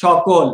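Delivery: সকল said "shokol", sh first and o in the middle; correct pronunciation. Shown as a demonstration. Teacher correcting option A for students, সকল said as "shokol". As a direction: say সকল with তালব্য sh and a rounded second vowel. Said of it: "প্রথম option A এর উচ্চারণটা হবে".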